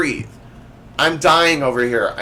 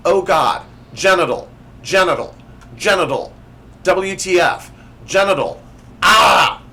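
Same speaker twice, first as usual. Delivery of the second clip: frustrated shout; 3 semitones higher, 5 dB louder than usual. Acted. Reader shouting frustration at autocorrect.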